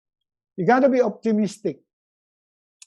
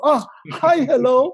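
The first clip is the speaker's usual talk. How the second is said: mock surprise; 7 semitones higher, 7 dB louder than usual. Finding wife beside him.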